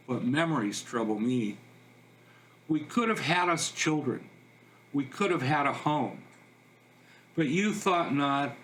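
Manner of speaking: measured verse, each line starting up and falling away; lilting, unhurried poetry reading; poem recital. Acted. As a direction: recite the ditty line by line, with pauses. Reads a ditty in verse.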